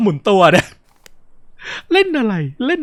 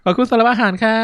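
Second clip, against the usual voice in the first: lightly raised polite female role; mother's mealtime thanks; 3 semitones higher than usual. Acted. Mother to family after the meal, light polite voice.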